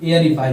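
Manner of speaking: एयरीफाई said as "air-ee-fy"; correct aerify. Shown as a demonstration. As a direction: open एयरीफाई on "air", then "ee-fy". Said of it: "इसका उच्चारण हो गया".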